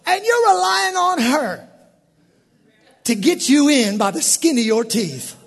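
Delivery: high, loud preacher call-out to the room; full-force preaching. Real, not acted. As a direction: preach it hard at the congregation.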